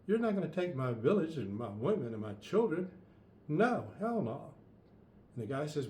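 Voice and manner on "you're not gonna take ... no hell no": defiant king. Acted. King refuses invader.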